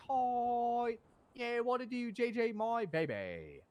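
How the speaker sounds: high, loud whoop easing into a drawn-out finish; hyped-up greeting. Retold or imitated. Man greeting the girl who came for him, hyped and high. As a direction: greet them high, stretching the last words. Acts out his delighted greeting.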